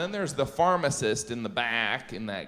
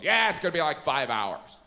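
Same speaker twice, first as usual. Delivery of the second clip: inconvenienced pharmacist. Acted. Pharmacist sending a customer off to wait, put out. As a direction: brush the customer off as a bother. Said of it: "seem like you're inconveniencing the pharmacist".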